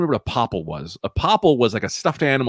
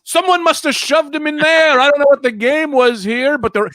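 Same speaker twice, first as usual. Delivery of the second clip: fake innocent surprise; 5 dB louder than usual. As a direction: play the innocent finder, high and bright. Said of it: "was like".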